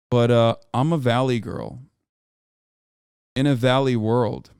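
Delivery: put-on leicht gespielte Valley-Girl-Stimme. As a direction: spiel ein Valley Girl an. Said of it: "why do you talk like a valley girl".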